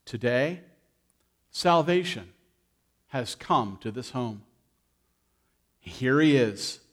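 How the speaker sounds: slow, solemn blessing; a lightly voiced, earnest Jesus declaring salvation. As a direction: pronounce it slowly, like a blessing. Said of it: "And Jesus said".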